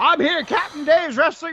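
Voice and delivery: put-on screaming. Retelling a call during a wrestling show: imitating Captain Dave screaming. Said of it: "he's screaming in my ear".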